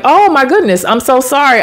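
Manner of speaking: retold flustered sorry; apologetic. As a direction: imitate yourself apologizing profusely. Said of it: "I'm getting all apologetic".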